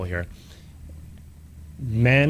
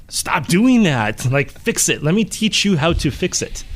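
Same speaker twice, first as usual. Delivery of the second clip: exasperated outburst; 5 semitones higher than usual. Retold or imitated. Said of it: "don't you just kind of lose it and be like".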